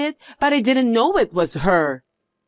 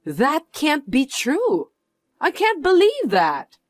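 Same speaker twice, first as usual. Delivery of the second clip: shocked disbelief; 5 semitones higher, slower than usual. Acted. Learns the poor woman is rich.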